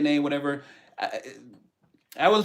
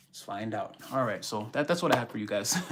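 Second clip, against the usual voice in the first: breathless after exercise; out of breath; 5 semitones lower, 6 dB quieter than usual. Real, not acted. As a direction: talk while catching breath. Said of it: "I'm all freaking out of breath".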